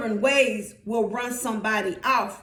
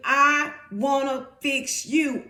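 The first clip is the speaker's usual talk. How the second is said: slow, deliberate emphasis; word-by-word preacher's quote; God speaking; slower than usual. Acted. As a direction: stretch each word as a pronouncement.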